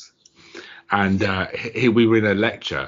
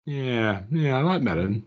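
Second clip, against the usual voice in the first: laughing; 6 semitones higher, slower than usual. Retold or imitated. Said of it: "and it's just like".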